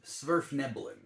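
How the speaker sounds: Sverfneblin in one go, falling at the end; pronunciation attempt. Shown as a demonstration. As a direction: settle on Sverfneblin with a falling tune. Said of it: "I think is how you would pronounce it".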